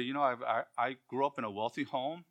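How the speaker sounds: lightly acted earnest testimony; impassioned early Christian. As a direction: speak as an aging Christian offering himself as a servant. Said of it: "and they say".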